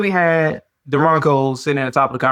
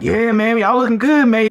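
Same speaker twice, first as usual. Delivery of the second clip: mock hype fan; 6 semitones higher than usual. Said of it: "A lot of folks are like".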